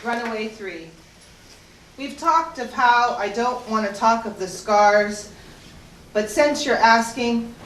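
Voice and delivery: measured poem recital with weighted pauses; poetry reading. Acted. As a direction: read it as verse, phrase by phrase. Reads third persona poem.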